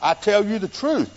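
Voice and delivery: measured, weighty stress leading to "truth"; firm, deliberate pronouncement, "truth" drawn out; emphatic. Retold or imitated. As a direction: declare it slowly and land on "truth". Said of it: "He's saying that's the emphatic tense".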